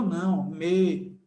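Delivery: "me" said slowly and apart; teacher models the weak vowel in me; clipped me. Shown as a demonstration. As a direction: drag out "me" as a single weak sound. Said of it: "Já na palavra meu".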